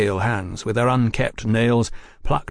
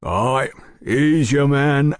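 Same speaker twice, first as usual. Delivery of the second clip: publican identifying; 4 semitones higher, 3 dB louder, much slower than usual. Acted. Sayers identifies a portrait.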